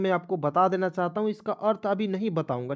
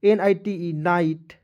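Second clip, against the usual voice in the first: spelling out slowly; slower than usual. Shown as a demonstration. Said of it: "यू को यू लिख दीजिएगा".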